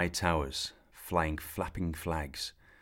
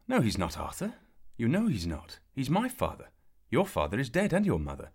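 put-on raised, higher boy's voice insisting; heated retort; 7 semitones higher, 4 dB louder than usual. A narrator's reading. Kay snapping at Arthur about his father, raised and insistent. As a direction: push back hard, almost shouting.

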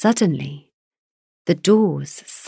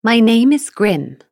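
roaring giant; 6 semitones higher, 7 dB louder than usual. Acted. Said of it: "his voice sounded like an angry, roaring bull".

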